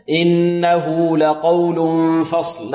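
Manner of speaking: drawn-out tajweed recitation of إنه لقول فصل, heavy ق in لقول; إنه لقول فصل held long, emphatic qaf; Quranic recitation. Shown as a demonstration. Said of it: "القاف هنا مفخم".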